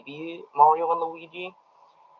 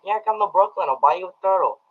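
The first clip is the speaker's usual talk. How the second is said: lightly voiced, higher flirty quote; casually flirting, pitched up a little from usual; light, higher-pitched character imitation; Mario; 5 semitones higher, faster than usual. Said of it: "Mario is unknowingly flirting with Peach".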